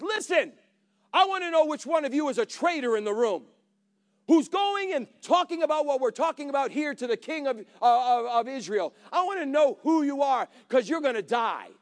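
a king barking at suspected traitors; angry king's demand. Retold or imitated. Angry king confronts his warlords.

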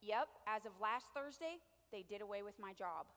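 the pastor's rising sermon build; impression of Philip. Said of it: "a pretty good impression of Phil".

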